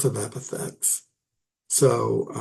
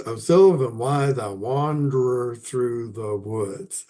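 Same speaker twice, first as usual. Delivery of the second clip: reading verse aloud. Shown as a demonstration. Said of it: "Let me check the syllables".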